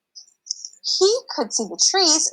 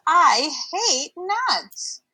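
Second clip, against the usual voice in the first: slow, drawn-out disgust; spoiled whine; 4 semitones higher, much slower than usual. Acted. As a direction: say it like a spoiled brat. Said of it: "said Toby Town Mouse".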